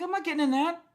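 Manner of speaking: high, loud indignant refusal; a squeaky, loud "no way" to the manager; retold outburst. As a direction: fling it back at him in outrage. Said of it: "I'm like".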